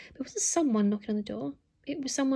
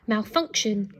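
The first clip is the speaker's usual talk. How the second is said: posh robot voice; slower than usual. Acted. Robot repeats error.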